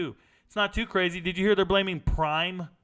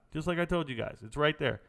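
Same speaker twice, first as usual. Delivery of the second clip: ordinary delivery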